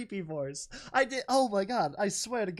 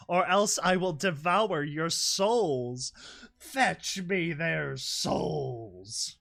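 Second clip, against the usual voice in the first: slow soul-eating threat; much slower than usual. Acted. Villain threatening the ponies' souls, slow and monstrous. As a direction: drag out every word like a threat from the grave.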